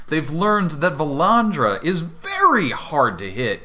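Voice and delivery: animated scene-setting with punched key words; game master narration. Acted. Game master announcing a manticore attack on the players, dramatic narration. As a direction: build up the monsters' attack theatrically.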